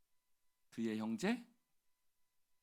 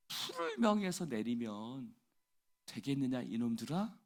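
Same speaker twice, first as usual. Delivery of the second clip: rebuking; 3 dB louder than usual. Acted. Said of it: "꾸짖으셨다".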